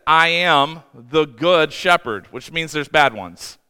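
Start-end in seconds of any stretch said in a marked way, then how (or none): 0.1-2.3 slow, weighty words of Jesus; slow solemn quote. Retold or imitated. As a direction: lay each word down slowly. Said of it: "Jesus said".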